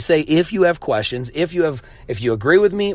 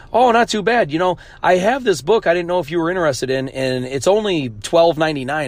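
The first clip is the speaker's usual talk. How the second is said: higher mock sales pitch, sweet and pushy; fake-friendly seller; 4 semitones higher than usual. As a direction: slide from small talk into the sales pitch. Mimics seller pitching his book.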